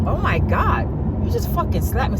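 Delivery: mock disbelief; mock stunned. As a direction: play him stunned. Voicing his shock.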